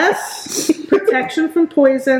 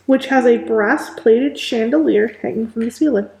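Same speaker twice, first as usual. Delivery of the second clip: measured read-aloud room description; game master's scene setting. Acted. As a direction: set the scene for players, with deliberate pauses.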